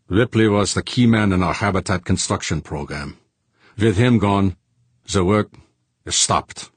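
a hint of a Germanic-accented man; lightly accented accuser. Accuser explaining the dead man's importance, lightly accented. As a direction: explain it earnestly with a slight accent.

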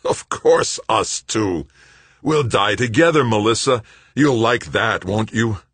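high, loud, crazed exultation; manic glee. A narrator's reading. Greg to Melissa about dying together, wildly gleeful. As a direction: start drawn out, then rise into wild glee. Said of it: "He laughed".

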